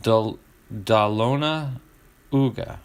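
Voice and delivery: Da Lona Uga as dah LOH-nuh OO-guh, in chunks; sounded-out mispronunciation. Shown as a demonstration. Host struggles with a city name, sounded-out mispronunciation. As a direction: pause between pieces of Da Lona Uga. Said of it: "speaking a foreign language now".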